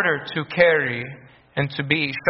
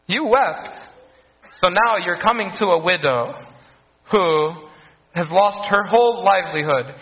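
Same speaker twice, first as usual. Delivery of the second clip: pretend objector; 3 semitones higher than usual. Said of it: "And then you might say".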